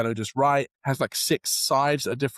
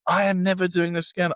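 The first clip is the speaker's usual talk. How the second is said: angry vow; 6 semitones higher, 3 dB louder than usual. Retold or imitated. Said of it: "I got so angry with God".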